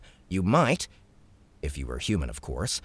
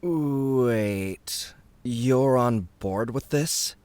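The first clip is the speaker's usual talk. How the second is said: higher, slow surprised question; surprised Nick; 5 semitones higher, much slower than usual. A narrator's reading. Nick surprised the princess agrees to join. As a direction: ask it in disbelief. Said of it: "Nick asked in surprise".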